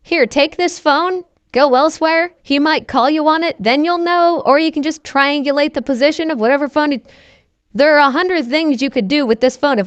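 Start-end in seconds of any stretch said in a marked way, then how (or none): 0.0-7.1 a lightly done Liam Neeson, a bit higher; gruff action-hero calm, only hinted; mock Liam Neeson as the trapped dad; Liam Neeson impression. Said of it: "that's my Liam Neeson voice".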